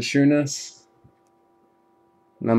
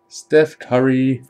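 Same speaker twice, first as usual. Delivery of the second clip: drawn-out name; 3 semitones higher, 4 dB louder, much slower than usual. Real, not acted. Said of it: "repeated name, varied".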